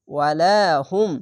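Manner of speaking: measured ওয়ালাহুম with a long লা; drawn-out recitation. Shown as a demonstration. Teacher repeating after spelling, slow ওয়ালাহুম. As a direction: stretch the middle of ওয়ালাহুম, slow. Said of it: "এক আলিফ টেনে পড়বেন".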